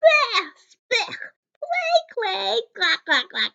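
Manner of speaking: loud, high yell of disgust. A narrator's reading. Mother biting the clay cookie, loud disgusted yell. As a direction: spit the clay out with a shout. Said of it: "And she yelled".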